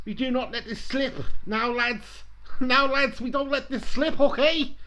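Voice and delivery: rally the lads in mock Scouse; Steven Gerrard. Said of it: "I better do it in a Scouse accent".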